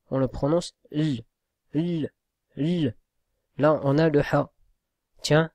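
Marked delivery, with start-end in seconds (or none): 0.9-3.0 "l" held and repeated; isolated l sound. Shown as a demonstration. Teacher drilling the silent lam sound. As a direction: sound "l" alone, dry, with no vowel. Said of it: "comment on le prononce".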